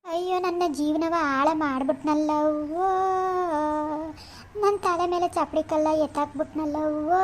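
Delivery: wife mourning her ruined life, slow and soft; tearful lament. Acted. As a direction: drag it out in grief.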